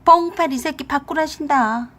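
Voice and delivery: mock-stern relay of mother's demand; relayed summons. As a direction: call it across to the husband, high and taunting. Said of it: "건넌방인 남편에게 그랬어요".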